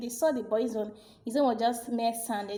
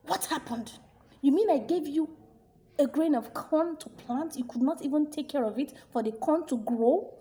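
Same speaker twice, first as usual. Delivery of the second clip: angry king; 4 semitones higher than usual. Acted. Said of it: "He was so furious".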